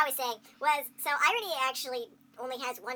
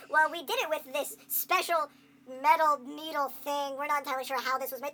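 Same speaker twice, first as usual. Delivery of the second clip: lightly voiced hesitant scientist; a hint of a bumbling scientist; other game character. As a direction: explain the dubious gadget, a touch sheepish. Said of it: "all the B S science all the other characters pull".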